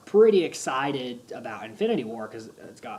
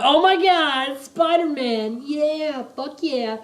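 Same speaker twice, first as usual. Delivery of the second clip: high, loud ecstatic shouting; retold fan freak-out, full voice; screaming fanboy excitement; 13 semitones higher, 9 dB louder, slower than usual. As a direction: shriek with delight at the screen. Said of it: "screaming at the top of my lungs".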